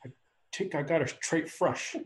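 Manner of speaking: lightly put-on Minnesota accent; Fargo accent. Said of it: "Fargo goes something like".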